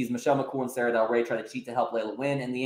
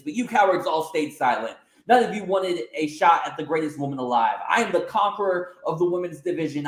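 a hint of a smug champion, mildly raised; slight haughty sneer in a near-normal voice; lightly voiced arrogant heel; 5 semitones higher, 4 dB louder than usual. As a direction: boast down at him, only lightly put on. Heel champion addresses roster.

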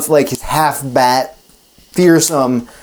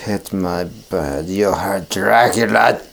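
low, slow vampire threat; menacing Dracula; 5 semitones lower than usual. Acted. Dracula accuses the coachman, low and slow. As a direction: loom over the man in a low, slow voice. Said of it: "He goes".

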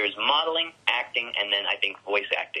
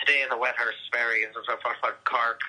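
put-on Cork newsreader accent. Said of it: "when they're on the news, like".

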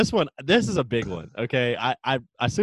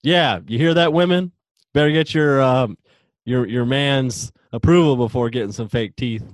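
mock scolding; 5 dB louder than usual. Mock lecture to women.

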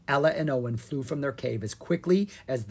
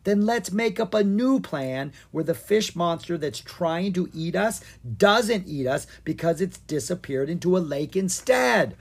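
shout; 4 semitones higher than usual. Acted. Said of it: "Owen shouted".

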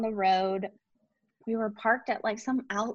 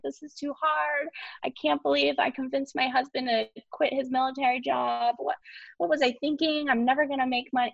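higher, half-hearted tearful voice; retold crying despair; 5 semitones higher than usual. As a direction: replay the breakdown, lightly. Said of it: "And I just started crying".

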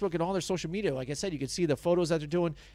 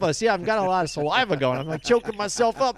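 amped up; 3 semitones higher, 3 dB louder than usual. Real, not acted. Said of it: "I'm amped up".

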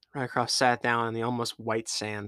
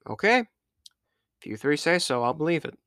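higher, measured pirate captain; evenly accepting, playing the captain; captain weighing his crew's word, higher; 5 semitones higher, 4 dB louder than usual. Rycroft accepting crew's story.

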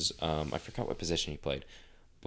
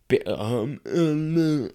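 mock stammering; 8 semitones higher, 6 dB louder, much slower than usual. Stammering to the coach on the mound.

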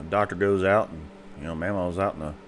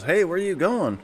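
mama voiced much higher; 9 semitones higher than usual. Mama asking papa where he is going, much higher. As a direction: call after him pitched up.

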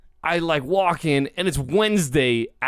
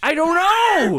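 exasperated; 14 semitones higher, 5 dB louder, slower than usual. Real, not acted. Exasperated high exclaim.

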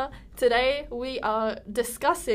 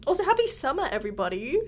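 excited; 3 semitones higher than usual. Real, not acted. Cheerful summer greeting.

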